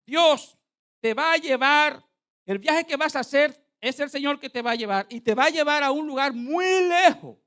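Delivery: high, loud prophetic declaration; prophet's proclamation. Retold or imitated. Preacher imitates the man prophesying his journey, loud proclamation. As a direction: proclaim God's promise like a prophet at the pulpit. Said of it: "oiga lo que me dijo ese hombre".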